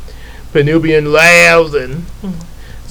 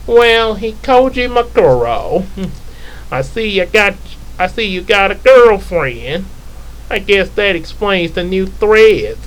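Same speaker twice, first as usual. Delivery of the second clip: taunting villain; 4 semitones higher than usual. Acted.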